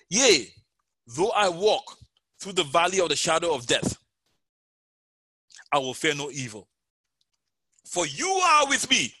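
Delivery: solemn psalm reading, swelling on key words; scripture reading. Acted. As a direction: read it as a promise to the hearers. Reads Psalm 23 aloud.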